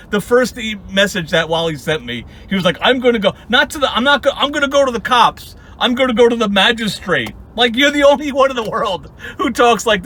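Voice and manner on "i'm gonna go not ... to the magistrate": mock threat. Mimicking nemesis's threat to report.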